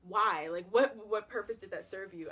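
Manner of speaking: loud baffled why, rising to a shout; exasperated yell. Retold or imitated. Yelling at the roommate over the kept cup, baffled. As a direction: shout it out in disbelief.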